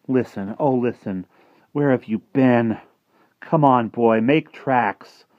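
eager call to a dog outside. Acted. Martin calls from bed to his missing dog, calling out eagerly.

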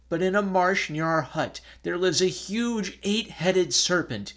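put-on old parents telling Susa of the serpent; mild tearful telling. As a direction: keep the grief in the voice. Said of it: "their voice choked with sobs".

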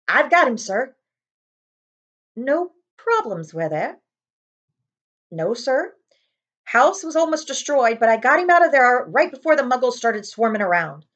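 loud, hearty big man; cheerful giant reporting in; Hagrid voice. Acted. Hagrid to Dumbledore, hearty and loud.

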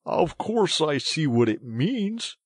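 loud, high, slow emphasis; indignant retort. A narrator's reading. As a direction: insist you understand perfectly well. Mole retorts to impatient rat.

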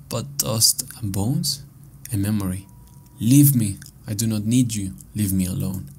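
deliberate reading with punched openings; diary read dramatically. Acted. Player reads out a diary page, mildly dramatic reading.

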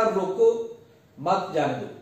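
"रोको" rising, a pause, then "मत जाने दो" falling; pause after रोको. Shown as a demonstration. Teacher reads the note aloud with a pause after "रोको". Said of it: "एक शख्स ने चिट के ऊपर लिखा".

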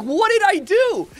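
indignant disbelief. Retold or imitated. Defending himself to the bar neighbors, high, loud and slow. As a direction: throw it back at them, offended and baffled. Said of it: "And I'm like".

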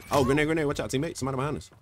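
urgent high yell to the team; grenade warning yell. Real, not acted. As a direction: shout the warning, fast and urgent.

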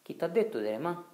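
loud, high, challenging shout; angry shout. Acted. Riccetto yelling at the rower who started rowing, angry shout. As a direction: demand it hotly. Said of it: "gli gridò il Riccetto".

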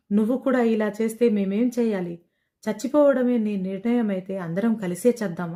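a mother begging through light tears; tearful plea. Acted. Mother pleading tearfully with her daughter, understated crying. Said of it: "అంటూ కన్నీళ్లు పెట్టుకుంది".

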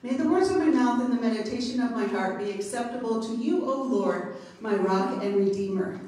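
formal prayer before the sermon; opening prayer. Acted. Preacher opening the sermon with a prayer to the Lord, reverent. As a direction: lift the words up to God reverently.

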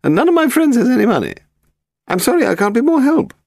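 put-on high, haughty elderly lady; very old woman. A narrator's reading. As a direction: play a grand, frail old aristocrat. Lady Delamore talking.

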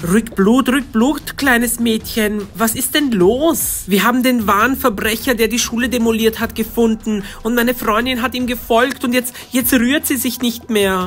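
lightly voiced policeman, amused and dismissive; a hint of a bored officer brushing off a kid.

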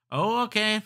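"Oh" jumps up high and loud; a sudden surprised oh. Real, not acted. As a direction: caught off guard by the game. Reacts to game text.

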